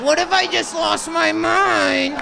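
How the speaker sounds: high, slow, dreamy question; slow mock musing. Comic acting out an intrusive thought, slow and high. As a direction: float the thought out slowly.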